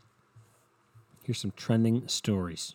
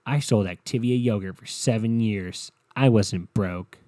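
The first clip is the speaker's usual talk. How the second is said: slow emphatic read; 3 dB louder than usual. Pretend. Reading Curtis tweet slowly.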